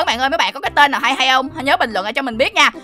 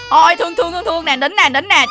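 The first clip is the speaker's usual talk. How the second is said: put-on higher-pitched cooing to a crying child; soothing baby talk; 4 semitones higher than usual. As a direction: coo and hush a pretend baby. Dỗ bé đang khóc. (giọng nựng nịu dỗ bé nín)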